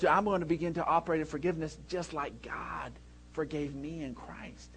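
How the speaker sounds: hushed, unvoiced inner vow; whispered resolve. Pastor voicing a believer's resolve to forgive, whispered. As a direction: whisper it as a private commitment.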